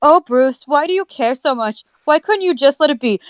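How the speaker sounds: lightly voiced pleading; reading a character line. Reading the novel aloud to friends, light pleading voice. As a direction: read the quote with a hint of pleading. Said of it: "reading the book line".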